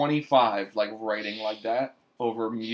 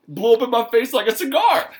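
high, louder mock rapper line; imitating a rapper; 10 semitones higher, 7 dB louder than usual. Mocking a rapper's cigar line to camera, high and loud. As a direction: deliver it like a rapper's proud punchline. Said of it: "He's like".

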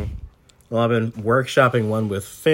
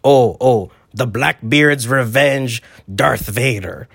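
a hint of the pirate captain; pirate boasting about his ship; lightly voiced pirate. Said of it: "speak to Pirate Briggs".

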